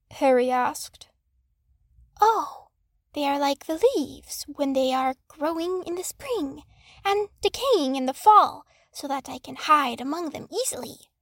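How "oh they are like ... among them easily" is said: a hint of a small snake's voice; friendly little snake explaining, lightly voiced. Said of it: "Neo explained".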